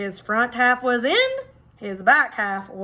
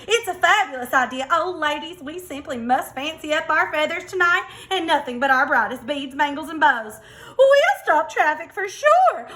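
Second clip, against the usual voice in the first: higher, excited diva hens; gushing hens; 4 semitones higher, 3 dB louder than usual. Acted. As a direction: gush like hens dressing up to show off. Hens gush over glamour plan.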